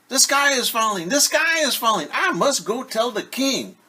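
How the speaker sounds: high, loud panicked shout; frantic cry. Acted. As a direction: cry the alarm while running. Henny shouts alarm running.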